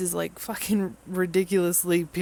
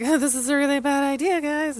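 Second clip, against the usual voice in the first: mock Nigma; 9 semitones higher, 3 dB louder than usual. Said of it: "he's like".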